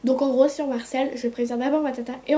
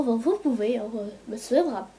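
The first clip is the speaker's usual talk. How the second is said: put-on Canadian accent. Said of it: "j'ai pris l'habitude de parler canadien".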